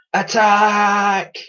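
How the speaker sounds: captain ordering attack; battle order. Acted.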